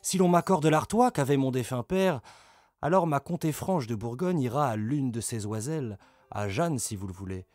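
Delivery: lightly mimicked sly old countess; mocking Mao. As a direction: parody her honeyed scheming to the king. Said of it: "contrefaire un discours imaginaire de sa tante Mao".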